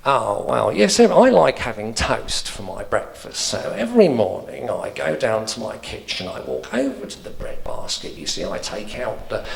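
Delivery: bored old man telling his routine, mildly voiced; lightly voiced old man. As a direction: drone through the breakfast routine like a tedious pensioner. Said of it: "So he'd be there going".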